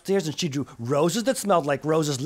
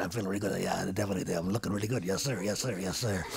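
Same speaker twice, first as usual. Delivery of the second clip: lower, softer smug replies; bluffing girl; 7 semitones lower, 5 dB quieter, faster than usual. Acted. Girl calmly bluffing her mum, low and soft. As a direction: play it cool to fool Mum.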